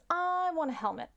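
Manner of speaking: high-pitched cartoon rabbit; little joke rabbit. Rabbit making a wish to the genie, high little voice. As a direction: play a small rabbit, pitch well up. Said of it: "The rabbit says".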